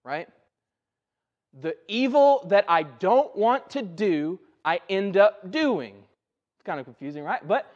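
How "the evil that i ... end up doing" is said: slow, emphatic quoting of Paul; emphatic scripture reading. Retold or imitated. Preacher quoting Paul to the congregation, slow and emphatic. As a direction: weigh each phrase slowly as you quote. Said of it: "Paul says it this way".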